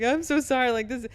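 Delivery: mock-tearful blurted apology; retold breakdown at work; retold crying apology. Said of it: "broke down crying".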